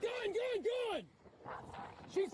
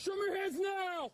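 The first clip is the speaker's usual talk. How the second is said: shout; 2 semitones higher than usual. Real, not acted. Officer orders suspect.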